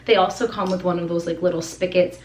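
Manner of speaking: winded after running up stairs; a little breathless, panting lightly; out of breath. Real, not acted. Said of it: "I'm out of breath from, like, running up and down the stairs".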